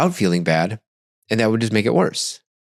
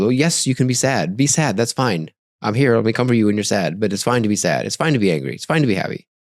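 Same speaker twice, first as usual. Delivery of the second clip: put-on lightly raised, gentle voice as if to a five-year-old; soothing a small child; 2 semitones higher than usual. Grown-up soothing a five-year-old, gently. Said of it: "this is what we would tell, tell a five-year-old".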